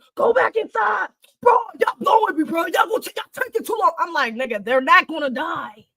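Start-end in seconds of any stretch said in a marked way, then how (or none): 0.2-3.9 put-on high-pitched screaming. Retelling theater viewers yelling at the screen: imitating people screaming. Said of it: "seven niggas screaming".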